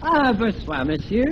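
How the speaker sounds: polite phony French greeting; French accent. Acted. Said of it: "talking like this with a French accent".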